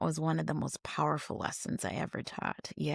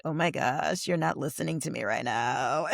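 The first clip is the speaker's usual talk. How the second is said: put-on Valley Girl voice; 2 semitones lower than usual. Teacher being weird to get students' attention, mild Valley Girl voice. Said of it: "in a Valley Girl voice".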